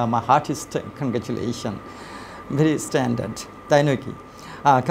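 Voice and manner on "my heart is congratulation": very slow, each word laid out for learners; slow careful model read. Shown as a demonstration. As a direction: read it slowly, as a model for the class. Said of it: "আমি এভাবে বলার চেষ্টা করি".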